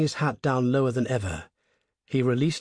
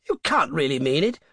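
incredulous gentleman; 3 semitones higher, 4 dB louder than usual. Acted. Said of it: "said the traveller".

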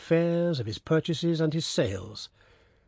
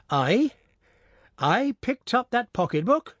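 put-on amazed old peasant; 9 semitones higher than usual.

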